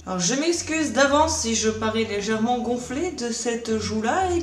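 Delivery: zézaiement de joue gonflée; lisp. Real, not acted. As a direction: parle avec un cheveu sur la langue. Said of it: "je parle un petit peu avec un cheveu sur la langue". (joue gonflée après opération des dents, zézaiement)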